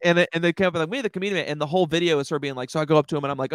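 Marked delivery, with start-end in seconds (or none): 0.9-1.5 imitating the girl. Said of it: "she does a very good impression".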